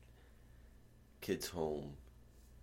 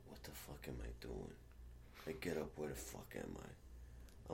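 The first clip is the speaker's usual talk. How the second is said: low and soft, slowed, half-awake; groggy; 5 semitones lower, 9 dB quieter than usual. Retold or imitated. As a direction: mumble it like just waking hungover. Waking up confused.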